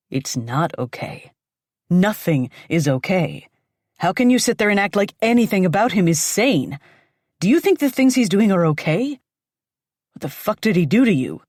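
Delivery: put-on furious ex-boyfriend lashing out; angry confrontation. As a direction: confront her, outraged and disgusted.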